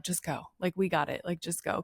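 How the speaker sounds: softly imitated staff send-off; quiet dismissal. Staff shooing a lingering parent away.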